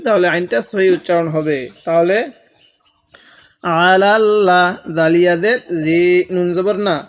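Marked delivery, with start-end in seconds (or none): 3.9-4.6 আলাল্লা with the আইন pressed firmly; pressed ain. Shown as a demonstration. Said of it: "এই আইনটা একটু চাপ দিয়ে পড়ব". (আইন চাপ দিয়ে পড়া)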